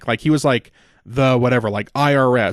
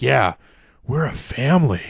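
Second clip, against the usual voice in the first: dopey mock voice. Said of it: "he sounds so fucking retarded".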